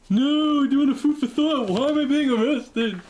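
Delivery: high, loud, slow pleading shout; panicked mock protest. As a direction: beg from the cell in hammed-up panic. Imagined arrest at customs.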